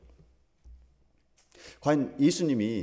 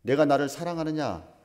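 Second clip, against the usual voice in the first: voicing the Lord; 4 semitones higher, 6 dB louder than usual. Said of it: "주님이 이 자리에서 우리 각자에게 질문한다고 생각해 보십시오".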